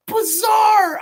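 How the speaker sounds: bizarre squeaked out high and loud; incredulous high yelp; exclaimed disbelief. Real, not acted. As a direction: sound flabbergasted. Disbelief at plot twist.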